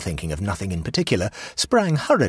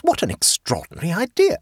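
shocked exclamation, higher and louder; gasped; 4 dB louder than usual. A narrator's reading. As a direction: gasp it out in disbelief. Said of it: "gasped the hostess".

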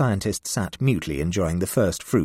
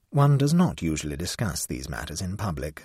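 frigid. Acted. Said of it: "said Tobermory frigidly".

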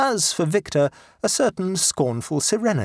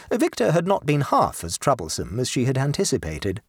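usual speaking voice

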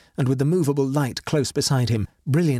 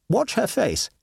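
a raised, sharp order; Horton, urgent; 9 semitones higher than usual. Acted. Horton orders his friend to watch the corpse, raised. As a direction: make him look now.

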